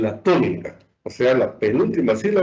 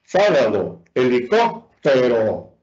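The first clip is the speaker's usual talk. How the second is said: Sábado, Helicóptero with weight on "Sá" and "cóp"; stress on antepenultimate syllable. Shown as a demonstration. Teacher gives examples, Sábado and Helicóptero stressed on "Sá", "cóp". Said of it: "la antepenúltima sílaba es sa".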